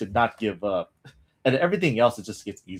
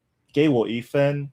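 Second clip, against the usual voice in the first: Beijing accent; 4 semitones higher than usual. Shown as a demonstration. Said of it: "Usually it's".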